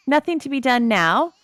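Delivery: laughing through the words; resigned chuckle as you say it. Real, not acted. Laughing at the twins' odd names, giggly.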